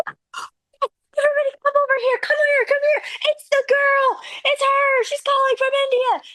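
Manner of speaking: high-pitched, hushed-frantic summoning of everyone; excited calling out. Retold or imitated. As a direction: act out someone urgently calling coworkers over. Retold lady summons the office.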